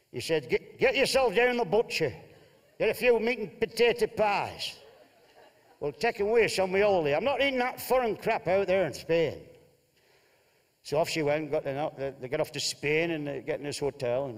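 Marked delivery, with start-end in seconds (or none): 0.5-9.4 a raised, blustering northern husband; gruff Bolton husband. Acted. Telling Martha he won't eat Spanish food. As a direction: bluster like a fussy holidaymaker.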